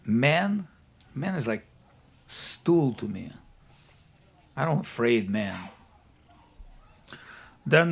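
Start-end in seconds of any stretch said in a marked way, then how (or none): 0.0-5.7 a hint of a dismissive demon, lower on the later words; lightly voiced Ravana. Ravana answers Shiva's question about man, lightly voiced scorn. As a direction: lightly act a scornful boast, dropping low. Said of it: "And Ravana said".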